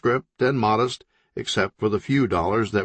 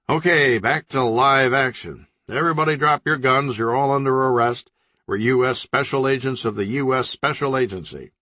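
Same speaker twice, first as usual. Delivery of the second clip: commanding order; 4 semitones higher than usual. Acted. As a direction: take command of the room. Leader orders everyone, arrest.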